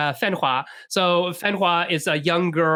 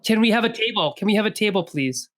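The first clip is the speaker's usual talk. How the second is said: put-on Hong Kong accent; 4 semitones higher, faster than usual. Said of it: "a really strong, like, Hong Kong accent".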